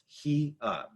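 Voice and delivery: "He, uh" as two distinct vowel sounds; separated sounds. Shown as a demonstration. Teacher separates those two sounds for learners, split vowels. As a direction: break "He, uh" into two beats with a gap. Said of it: "We're gonna separate those two sounds".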